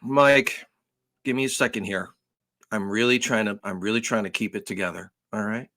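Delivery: quiet, pleading, on the edge of losing it; acting upset. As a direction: play it like he's barely holding it together. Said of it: "I kinda do a little acting".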